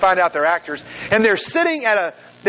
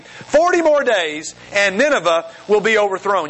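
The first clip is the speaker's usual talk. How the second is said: proclaiming. A narrator's reading. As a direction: stretch it out as a mild public proclamation.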